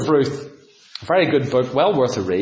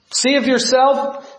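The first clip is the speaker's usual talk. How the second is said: mocking jeer; 9 semitones higher, much slower than usual. Mocking crowd at the cross.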